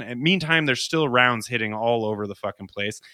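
ordinary delivery

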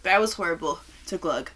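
eyes watering after a harsh gulp; teary-eyed. Real, not acted. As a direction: talk through watering eyes. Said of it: "my eyes are watering".

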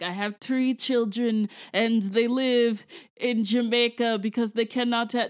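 bad Jamaican accent, deliberately weak. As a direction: imitate a poor Jamaican accent. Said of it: "It's a bad Jamaican accent".

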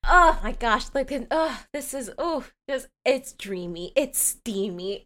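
breathless gushing oh my gosh; swooning. Real, not acted. Gushing to her friend over the romantic scene, swooning. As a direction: gush like the scene undid you.

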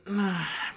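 soft, weary sigh; exasperated sigh. Real, not acted. Reviewer fed up with the film's jokes, exasperated sigh. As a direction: let out a quiet sigh of dismay.

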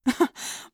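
small forced laugh of disbelief; short, unvoiced scoffing laugh; disbelieving laugh. A narrator's reading. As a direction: attempt a short, incredulous laugh. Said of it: "tried a disbelieving laugh".

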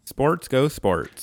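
slow, dopey sports fan; drawn-out meathead chant; dumb jock voice. Pretend.

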